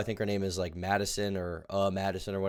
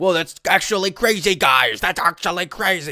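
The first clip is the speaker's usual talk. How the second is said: shrill, blaring, very high, very loud streamer voice; 10 semitones higher, 9 dB louder than usual. Mocking how a TikTok commentary creator talks: imitating the TikTok commentator's way of talking. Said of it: "He's just like".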